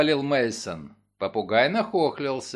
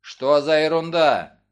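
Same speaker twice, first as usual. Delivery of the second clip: indignant; 6 dB louder than usual. Acted. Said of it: "Коронер возмутился".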